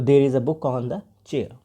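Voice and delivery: slow, careful drill answer; slow student answer. Shown as a demonstration. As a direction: lay it out word by word. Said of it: "students को पता चल गया".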